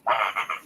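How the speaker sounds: short pulsing fake sobs; hammed-up crying noise without words; mock sobbing. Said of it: "keeps crying more".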